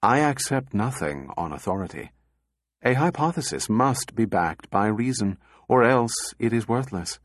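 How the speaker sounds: calm, reasoned reply; measured robot logic. Acted. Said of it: "deprecatory gesture".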